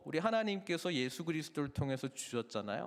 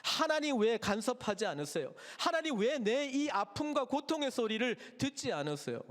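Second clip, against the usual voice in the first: plaintive complaint; 5 semitones higher than usual. Acted. Voicing complaint to God.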